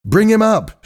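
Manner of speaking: high, urgent command; anxious shout. A narrator's reading. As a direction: shout the order with the pitch right up. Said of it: "shouted Hal".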